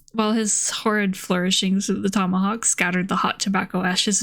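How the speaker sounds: measured audiobook-style reading, even pitch; story narration. A narrator's reading. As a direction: read the old novel aloud evenly. Reads a novel aloud.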